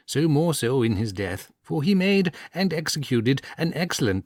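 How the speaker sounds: sly earnest priest. Acted. Priest pleading to the bishop, sly and earnest. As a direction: sell the dog's will with a knowing straight face.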